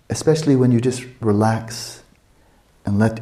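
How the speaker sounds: normal talking voice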